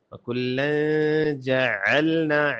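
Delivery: وکلن جعلنا with a distinct throaty ain; clear ain. Shown as a demonstration. Teacher models it for learners, clear ain in جعلنا. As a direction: bring out the ع of جعلنا after the held hum. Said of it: "عین کو واضح کریں".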